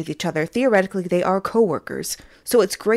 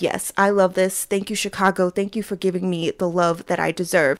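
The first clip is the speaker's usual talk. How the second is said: mock smug idol; 2 semitones lower, 4 dB quieter than usual. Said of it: "He was like".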